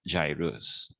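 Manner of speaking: "gyrus" with a soft g, JAI-rus; "gyrus" as the correct JAI-rus. Shown as a demonstration. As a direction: say "gyrus" slowly with a j sound. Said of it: "the cat is correct".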